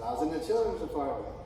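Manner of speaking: a hint of a cheery friend; Matt's line, voiced a touch lively; imitated pastor-friend. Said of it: "He didn't say it like that either".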